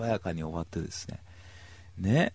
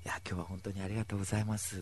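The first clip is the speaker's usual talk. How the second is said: gentle father; 2 semitones lower, 10 dB quieter, faster than usual. Retold or imitated. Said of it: "もう智弘くんみたいにもう優しい人なの".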